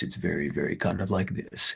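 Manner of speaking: gravelly, quiet, measured, composed and deliberate voice. Describing how a man in court talked: imitating Hossein Ayeri's gravelly voice. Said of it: "He's got this gravelly voice".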